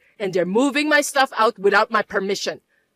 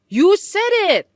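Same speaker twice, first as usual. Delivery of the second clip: much higher, loud, slow insistence on you; sharp accusation; 9 semitones higher, 5 dB louder, slower than usual. Acted. Mother contradicting her son, sharp and loud. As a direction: nail him with it.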